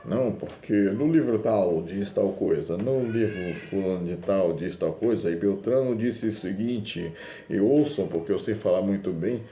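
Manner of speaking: preacher mimicking a pompous scholar; mocking a show-off. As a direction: parody someone who loves to parade book learning. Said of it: "tem gente que gosta de ficar assim, arrotando conhecimento".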